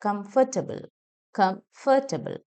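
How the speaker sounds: കംഫർട്ടബിൾ as "kum-fuh-tuh-bl", second take slowed and split; neutral vowel. Shown as a demonstration. Teacher repeats the correction, neutral middle vowel. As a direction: break കംഫർട്ടബിൾ into parts with "fuh". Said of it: "ഏ sound ആ വരുന്നത്".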